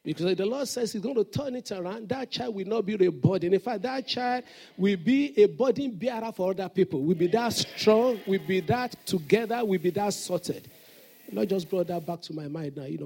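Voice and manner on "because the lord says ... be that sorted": louder, forceful prophecy; loud declaration. Real, not acted. Preacher proclaiming over a parent, much louder. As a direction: proclaim it over them with power.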